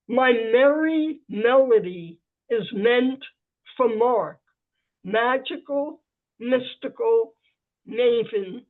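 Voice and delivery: measured poetry reading voice; alliterative verse. Acted. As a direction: read each M line with relish. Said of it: "I am going to read my alliterative poem".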